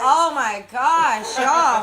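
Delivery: burning mouth, slurred words; tongue on fire. Real, not acted. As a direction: talk with a scorched tongue. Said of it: "I still can't talk".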